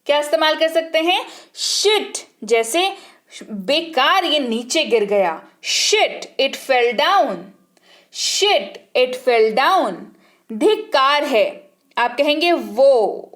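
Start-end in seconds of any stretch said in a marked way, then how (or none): 1.5-2.2 high, sharp curse word; annoyed shit. Shown as a demonstration. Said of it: "कोई feeling वैसी आ रही हो". 5.6-7.4 annoyed curse. Shown as a demonstration. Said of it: "कोई feeling वैसी आ रही हो". 8.1-9.9 annoyed curse. Shown as a demonstration. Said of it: "कोई feeling वैसी आ रही हो".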